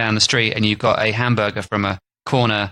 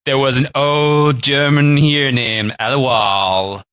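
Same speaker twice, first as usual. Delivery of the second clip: put-on slow old man voice, more clearly spoken; a slow old man, now articulate; slow old man retake, articulated; slower than usual. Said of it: "I'll start again".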